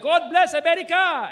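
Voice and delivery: high, loud showman cry; hammed-up patriotic cheer; mock stadium shout. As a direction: belt it to the whole stadium. Voicing a singer's big shout.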